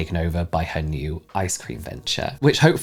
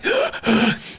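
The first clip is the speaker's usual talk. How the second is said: sharp gasp. Real, not acted. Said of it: "I can't breathe through my nose".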